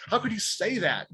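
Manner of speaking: mock an offended man's protest; pissed off. Stranger challenging him at next table, pissed off. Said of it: "he was just so pissed".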